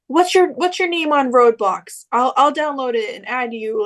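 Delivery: trying to be nice. Retold or imitated. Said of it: "Kyle tries to be nice".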